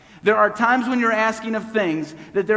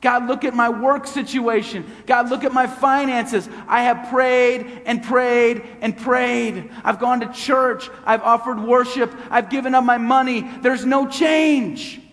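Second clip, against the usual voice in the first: desperate prayer; 3 semitones higher than usual. Acted.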